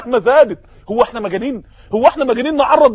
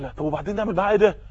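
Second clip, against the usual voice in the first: fast exasperated aside; 5 semitones lower, 9 dB quieter, much faster than usual. Acted.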